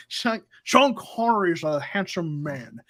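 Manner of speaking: put-on a lightly done, jokey Scottish accent in the style of a famous film star; a deliberately poor Scottish accent, played for a laugh; bad Sean Connery accent. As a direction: toss off a quick, half-hearted Scottish film-star accent. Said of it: "that's a really bad, uh, accent".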